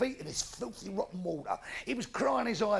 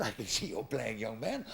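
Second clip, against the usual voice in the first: vicar voice; 11 semitones lower, 8 dB quieter than usual. Acted.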